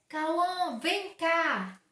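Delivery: firm summons, no arguing; stern call. Shown as a demonstration. Mother calling her son Cauã over, cross and firm. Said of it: "Ele sabe que eu tô brava".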